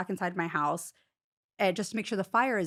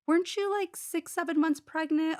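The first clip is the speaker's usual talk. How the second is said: suspicious mom; 9 semitones higher than usual. Retold or imitated. Mom questioning Cassandra suspiciously.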